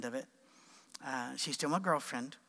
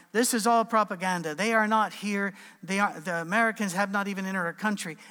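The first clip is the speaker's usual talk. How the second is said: Iraqi spokesman; 3 semitones higher, 5 dB louder than usual. Retold or imitated. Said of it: "standing there going".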